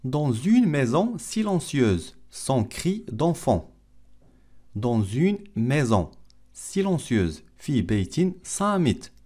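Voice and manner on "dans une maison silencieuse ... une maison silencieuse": slow, carefully separated French phrases; slow model reading. Shown as a demonstration. Teacher repeats the film line for learners, slow model reading. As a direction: read it slowly for language learners.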